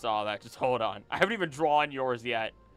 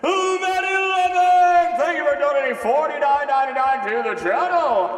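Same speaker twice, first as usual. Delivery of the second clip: Toad voice; 12 semitones higher, 11 dB louder than usual. Acted. Streamer thanks donor in a loud, high Toad voice. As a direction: shout thanks like an excited Toad. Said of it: "I gave you the Toad voice".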